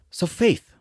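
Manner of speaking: breathy whisper of the key word. Real, not acted. Speaker drawing the audience close, whispered. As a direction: lean in and whisper it.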